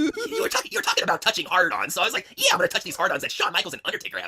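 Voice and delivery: very high, loud hammed-up moaning tease; high lewd woman voice. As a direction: camp it up in a squeal.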